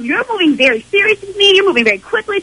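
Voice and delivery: upset confrontation. Real, not acted. Girlfriend confronting cheating boyfriend.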